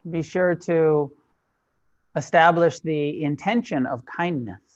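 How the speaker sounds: measured meditation instruction with long silences between phrases; guided meditation. Real, not acted. Teacher settling a class into sitting practice, spacious guided meditation. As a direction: guide the sitters phrase by phrase, leaving space.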